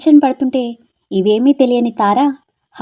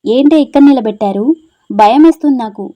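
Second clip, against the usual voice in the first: louder, anxious protest; scared complaint; 6 dB louder than usual. Acted. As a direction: cry out nervously at the open bus door. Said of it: "భయంగా వెనక్కి చూసింది". (బస్సు door దగ్గర భయంతో అరుస్తూ)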